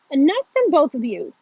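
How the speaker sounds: loud, stern principal; firm interjection. A narrator's reading. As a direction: cut the squabble off firmly. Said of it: "the principal interjects".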